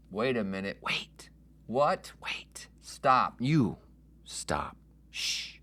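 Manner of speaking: unvoiced whisper back and forth; whispered bickering. Host arguing with his other voice, whispered. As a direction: squabble in whispers.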